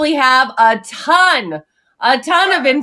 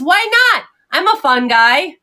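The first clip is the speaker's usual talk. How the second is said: flat setup lively punchline; 5 semitones higher than usual. Acted. Punchline of the mushroom joke.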